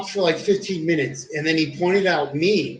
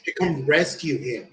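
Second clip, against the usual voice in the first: laughing through the punchline, a bit louder; 3 semitones higher, 5 dB louder than usual. Real, not acted. Telling his friend the payoff, laughing out loud. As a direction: crack up while telling it. Laughing at the cop-calling story.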